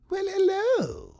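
very high, slow, drawn-out hello; casting guy. Retold or imitated. Casting director greets him, very high and slow. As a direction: stretch the greeting in a high flamboyant voice. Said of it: "And the guy says".

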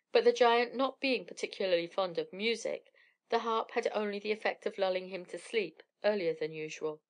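usual speaking voice

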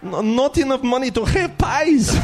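high, slow mock Russian accent, giggling; hammed-up Russian footballer longing for pies; slow broken-English Russian voice; Arshavin impression. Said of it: "I could do Arshavin".

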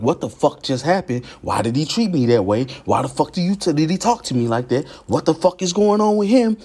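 baffled complaint, pitch rising sharply; increasingly high-pitched indignant questioning; bewildered others. Acted. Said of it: "None of these people really wanna talk to me".

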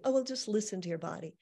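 breezy, offhand advice; glib. Retold or imitated. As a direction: toss it off lightly. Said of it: "say it kind of glibly".

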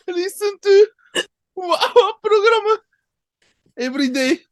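high, sing-song DJ sign-off; radio host voice. Pretend. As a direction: announce it like a cheesy radio host.

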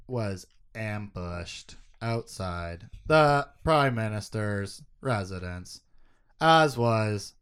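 slow, halting robot voice reading the list. Acted. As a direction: deliver it like a stiff robot readout. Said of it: "I don't know why I did that robot voice".

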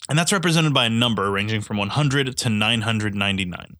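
congested, stuffy nose voice; blocked nose. Real, not acted. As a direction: speak through a blocked nose. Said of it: "I'm really congested".

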